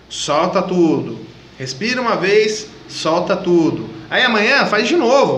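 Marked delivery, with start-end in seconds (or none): 0.1-3.9 slow exhale. Shown as a demonstration. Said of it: "Vai lá, respira uma vez".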